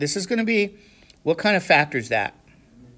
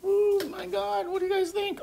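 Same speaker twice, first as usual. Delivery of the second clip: exasperated exclamation; 5 dB quieter than usual. Real, not acted. Teacher reacts to class answers.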